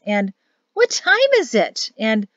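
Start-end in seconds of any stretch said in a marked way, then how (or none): 0.7-1.9 high, raised-voice question; loud, confused and pitched up; loud exchange. A narrator's reading. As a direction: call out as if just woken. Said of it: "After some loud exchanges of".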